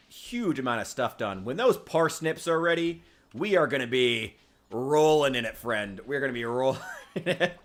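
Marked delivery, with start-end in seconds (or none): 1.4-7.6 playful put-on Russian accent; jokey Russian comrade accent. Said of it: "worked on my Russian accent".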